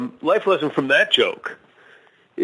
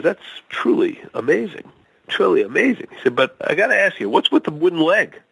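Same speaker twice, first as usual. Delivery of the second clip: higher, wide-eyed questioning; passerby marveling and then asking about the leg, higher; stranger in joke; 5 semitones higher than usual. Acted. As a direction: play the curious passerby, pitched up. Stranger reacts in told joke.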